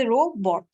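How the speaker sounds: रोबोट as two parts, रो, बोट; split into syllables. Shown as a demonstration. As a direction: pause inside रोबोट after रो. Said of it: "two parts में divide हो सकते हैं".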